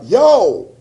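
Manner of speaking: retold caller hollering; urgent phone summons. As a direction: call out hard like a friend needing help now. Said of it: "He calls me up".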